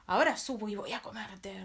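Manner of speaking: loud troll roar; troll threatening the biggest goat, loud roar. Acted. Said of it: "rugió el ogro".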